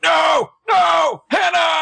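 very high, loud mock scream; hammed-up anguished shouting; Caleb. Imitating a boyfriend seeing her body, mock desperate shout. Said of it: "And Caleb's like".

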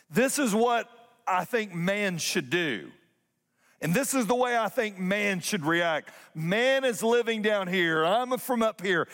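lofty distant God. Retold or imitated. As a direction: play a God talking down from far away. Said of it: "how the Christmas story could have been told".

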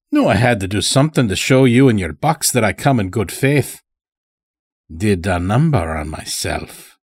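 put-on folksy old-timer, mildly reassuring; lightly voiced old farmer. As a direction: lightly play a rustic captive pleading harmlessness. Old captive farmer speaks in story.

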